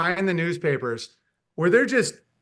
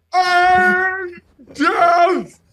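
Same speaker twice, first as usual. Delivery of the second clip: much higher, loud, hammed-up exclamation imitating Stephen Hawking; mock Hawking; 11 semitones higher, 8 dB louder than usual. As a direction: cry out in mock delight like a caricature. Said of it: "He's like".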